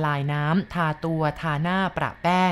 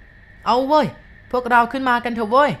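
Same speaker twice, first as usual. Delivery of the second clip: high, loud, slow calling out; 5 semitones higher, 5 dB louder, slower than usual. A narrator's reading. Old man calling his group upstairs, loud and high. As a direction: call the group up the stairs. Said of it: "เฒ่าเต็กตอบ".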